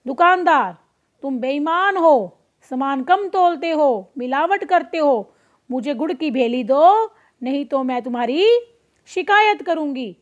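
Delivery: धीमी, अकड़ भरी कड़वी बात; हल्की-सी घमंडी धमकी, शब्द धीरे-धीरे; अकड़ कर बोलना. Acted. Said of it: "अकड़ कर बोली". (लोमड़ी दुकानदार को धमकाती है, अकड़ कर)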